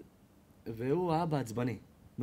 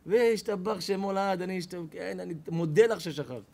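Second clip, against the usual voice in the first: grateful gracious diner; 3 semitones higher, 4 dB louder than usual. Acted.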